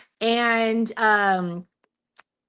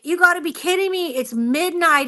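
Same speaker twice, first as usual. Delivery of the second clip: mild irritation; 5 semitones higher than usual. Retold or imitated. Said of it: "irritated with me".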